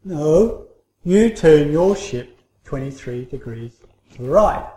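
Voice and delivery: a hint of impatience, pushing back; irritated voice. Ship's captain snapping back over the radio, mildly irritated. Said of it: "irritated voice came back".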